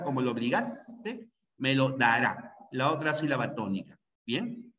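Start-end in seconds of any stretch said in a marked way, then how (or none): 0.0-2.5 "obligaste" leaning on GAS, "dará" on RÁ; weight on GAS of "obligaste" and RÁ of "dará"; two stressed syllables. Shown as a demonstration. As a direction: show the force in "obligaste" and "dará". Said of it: "eh, la fuerza".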